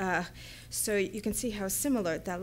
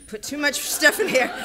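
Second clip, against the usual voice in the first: laughing; 6 semitones higher, 9 dB louder than usual. Real, not acted. Embarrassed laugh at own rushing.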